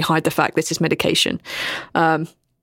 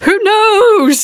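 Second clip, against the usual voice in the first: high, far-off ghostly whisper; Spectre voice; 13 semitones higher, 7 dB louder than usual. Acted. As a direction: breathe it like a spectre. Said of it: "Spectre voice".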